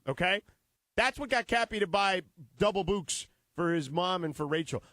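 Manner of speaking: upbeat sponsor read, selling it. Acted. Host pitching the sponsor to listeners, upbeat ad read. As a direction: pitch the flowers to listeners like a radio ad.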